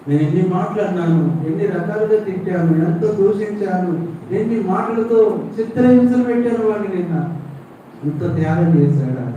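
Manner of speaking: high, anguished lament; a father breaking down over his words; heartbroken father. Acted. Father learning his son died for his brother, anguished and high. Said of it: "తండ్రి గుండె పగిలిపోయింది".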